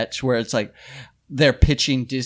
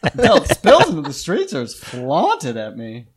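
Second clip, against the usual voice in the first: folksy Grizzard read. Shown as a demonstration. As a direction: read it like an old Southern columnist. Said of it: "I'll try and read it like Grizzard".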